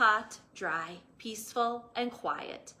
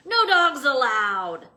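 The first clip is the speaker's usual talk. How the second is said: much louder gruff bark; yell; 3 semitones higher, 12 dB louder than usual. Acted. Cactus yelling at a coyote. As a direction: shoo the dog off. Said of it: "Hank yelled".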